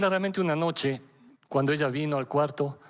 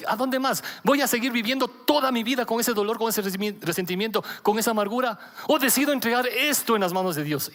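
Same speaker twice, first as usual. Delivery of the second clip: higher, urgent run of questions; impassioned quote; 5 semitones higher than usual. Retold or imitated. Father voicing his daughter's decision to turn to God, impassioned. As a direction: push through it as someone at breaking point. Retells daughter's breaking point.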